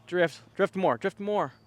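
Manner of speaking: excited, pleading call; will the disc to drift; urging the disc. Real, not acted.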